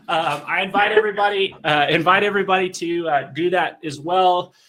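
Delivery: winded after push-ups; out of breath. Real, not acted. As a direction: talk while catching your breath. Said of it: "man, my face got red".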